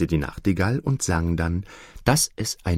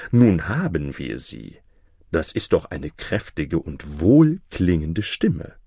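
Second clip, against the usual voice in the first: lower, self-satisfied courtier voice; pompous courtiers; 4 semitones lower than usual. Acted. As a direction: pronounce it like a smug courtier. Courtiers mistake cow for nightingale.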